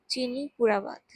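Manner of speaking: পুরা punched loud with a falling finish; firm emphasis. Real, not acted. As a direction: land hard on পুরা, no sugar at all. Firm diet advice.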